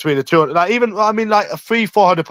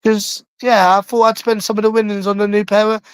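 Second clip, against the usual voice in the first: higher, whiny pleading call; pleading with mum; 7 semitones higher than usual. Real, not acted. Son pleading with his mum about new jeans, high whiny call. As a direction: plead your case to mum from afar. Arguing with mum across house.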